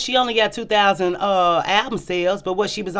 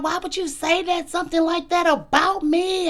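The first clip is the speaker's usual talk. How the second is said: retold crying; 12 semitones higher than usual. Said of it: "I'm crying".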